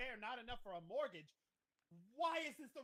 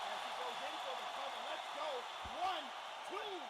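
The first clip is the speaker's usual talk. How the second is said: high, loud cheering call; rally for the cover count; wrestling commentator; 6 semitones higher, 5 dB louder than usual. Real, not acted.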